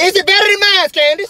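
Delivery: loud, forceful question; insistent demand. Acted. Man presses his ex about her lover, demanding. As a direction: raise the voice and demand an answer. Demands answer after evasion.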